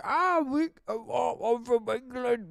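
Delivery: high, hammed-up posh British; mock posh English accent. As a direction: overdo a plummy English accent. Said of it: "and then you're like".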